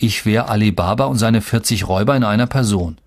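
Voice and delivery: usual speaking voice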